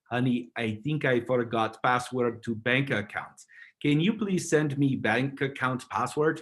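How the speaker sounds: lightly voiced Igor, slow broken English. Shown as a demonstration. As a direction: read it slowly like a clumsy Igor, just a hint of it. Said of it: "you read it like Igor".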